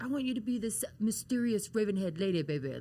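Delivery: lightly imitated promo coach, dropping on "baby"; quick impression of a wrestling mentor's instructions; Dusty Rhodes. Wrestler retells her mentor's promo instructions, lightly imitated. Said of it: "he used to always be like".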